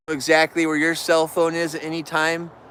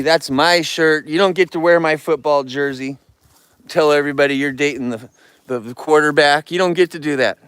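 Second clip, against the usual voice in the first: louder, firm telling-off of a bear; firm scolding; 5 dB louder than usual. Real, not acted. Man firmly scolds a bear stealing his shirt, louder.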